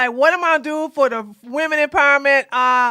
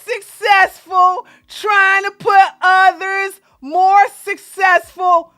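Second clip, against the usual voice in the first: mock reading; 4 semitones higher, slower than usual. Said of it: "And then you go".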